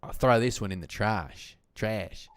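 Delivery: Australian accent, bursting in loud then easing off. Shown as a demonstration. Retrying the broken-pot line on request, Australian accent. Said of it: "Can you do an Australian accent?".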